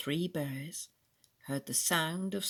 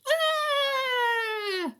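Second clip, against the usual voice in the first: long, high, acted shriek; high scream; 5 dB louder than usual. A narrator's reading. Goldilocks sees the three bears, high scream. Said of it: "she screamed".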